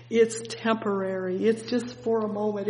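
ordinary talk, nothing marked

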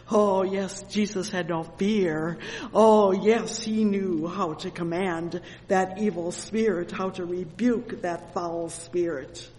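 impassioned sermon with bursts of volume; fervent preaching. Real, not acted. Preacher extols Jesus commanding the evil spirit, fervent preaching. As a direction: exclaim each "Oh, yes" with force.

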